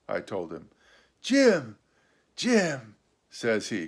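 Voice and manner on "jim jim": pleased. A narrator's reading. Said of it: "quite pleased apparently".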